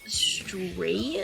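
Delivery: curious. Retold or imitated. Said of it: "I say it so curiously".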